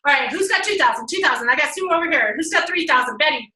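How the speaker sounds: brisk auctioneer calling bids. Shown as a demonstration. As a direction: rattle off bids, auction style. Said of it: "I do it like auctioneer style".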